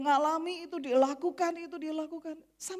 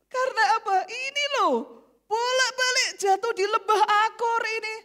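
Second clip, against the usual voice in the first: laughing exasperation; 8 semitones higher, 7 dB louder than usual. Real, not acted.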